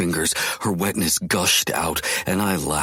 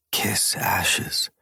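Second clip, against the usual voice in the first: whispered close to her lips; soft whisper; 3 semitones higher than usual. A narrator's reading. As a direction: whisper it right against her. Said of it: "I said softly against her lips".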